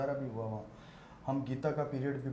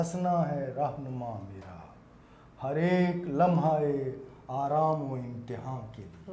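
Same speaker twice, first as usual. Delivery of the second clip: naat recitation; 2 semitones lower than usual. Acted. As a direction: recite each word with weight. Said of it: "نعت کے چند شعر پیش کرنا چاہوں گا".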